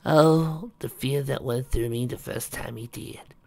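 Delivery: high "Oh" easing into thin recollection; lightly voiced frail grandmother; frail wife. Wife recalling being carried downstairs, frail and teasing.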